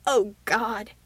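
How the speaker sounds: gasping, overwhelmed exclamation; gasped. A narrator's reading. Shaken man losing control, gasping. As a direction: gasp it out between hysterical laughs. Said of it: "he gasped".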